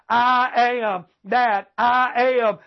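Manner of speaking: I AM drawn out slowly, each word weighted; slow, solemn weight on both words of "I am"; emphatic I AM. Real, not acted. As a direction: stretch "I am" as if in capital letters. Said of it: "knew that had to be emphasized".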